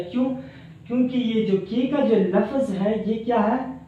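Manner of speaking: normal talking voice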